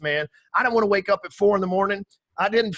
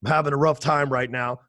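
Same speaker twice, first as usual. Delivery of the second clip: lower, deflated thanks; a hint of a gloomy guest; mock low-energy guest; 5 semitones lower than usual. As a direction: sound tired and flat. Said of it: "If you had me on this podcast and I was like".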